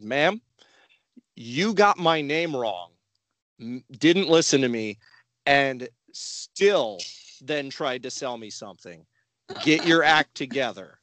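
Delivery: lightly firm scolding dad, calm but pointed. Retold or imitated. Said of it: "I went all dad voice".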